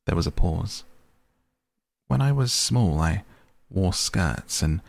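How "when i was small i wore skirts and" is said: doubtfully. Acted. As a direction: recall it with hesitant doubt. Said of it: "it said doubtfully".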